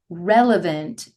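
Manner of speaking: RELEVANT drawn out slowly for emphasis; stress on RELEVANT. Real, not acted. Host flagging the topic as still current, stress on RELEVANT. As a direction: lean slowly on the word "relevant". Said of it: "emphasize the word relevant".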